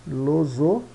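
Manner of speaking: "filosofia" in separated syllables, pauses between. Shown as a demonstration. Teacher showing where the F sounds fall, syllable by syllable. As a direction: break "filosofia" into fi, lo-zo, fi, a. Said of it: "Que dá o F".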